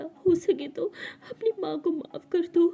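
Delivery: a mother sobbing over her failures; tearful plea. Acted. Mother to daughter, crying apologies. Mother cries begging forgiveness.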